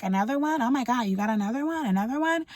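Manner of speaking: hammed-up jealous manager counting her VIPs; mocking the manager. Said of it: "you're like".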